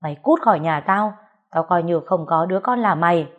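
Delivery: angry yell. Acted. Father yelling from inside at the daughter, angry. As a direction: bellow it from inside the house.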